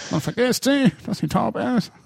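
high, strained pop-singer-style delivery; impression of a singer. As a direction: belt it out like a famous singer. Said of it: "War das eigentlich auch Grönemeyer".

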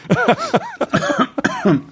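harsh cough from the heat; coughing fit. Real, not acted. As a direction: cough hard from spicy food. Spicy soup burning throat.

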